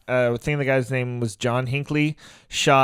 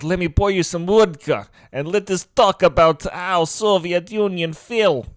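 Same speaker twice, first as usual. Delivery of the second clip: mock Russian accent; 5 semitones higher, 4 dB louder than usual. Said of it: "sound like Boris and Natasha".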